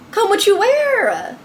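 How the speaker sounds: high, drawn-out incredulous outburst; losing her mind. Retold or imitated. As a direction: stretch it into a high, outraged question. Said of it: "I lose my mind".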